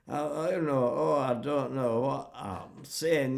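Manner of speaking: Glaswegian Yiddish grumbling; mock Glaswegian accent. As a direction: imitate a Glaswegian, drawing the words out. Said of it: "Yiddish spoken in the Glaswegian accent".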